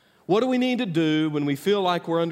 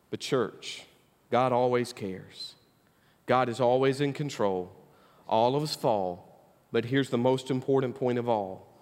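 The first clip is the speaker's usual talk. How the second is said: soft tender appeal; 4 semitones lower, 3 dB quieter than usual. Acted. Quiet tender close to sermon.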